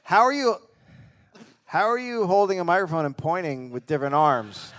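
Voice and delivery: high, loud laughing question; loud laughing shout. Pretend. Earless soldier shouting.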